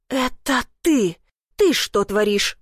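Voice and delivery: slow, a touch of an angry growl. Acted. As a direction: growl it back slowly in anger. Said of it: "прорычала я".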